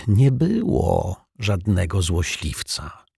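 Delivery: cutting in. Acted. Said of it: "przerwał mu detektyw".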